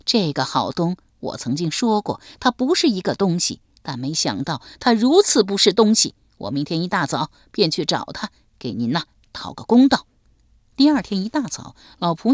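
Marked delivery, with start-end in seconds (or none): 0.1-10.1 put-on old servant woman's mild indignant outburst; a touch of angry protest on her mistress's behalf. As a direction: scold the absent man, rising in anger. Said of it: "愤然说道".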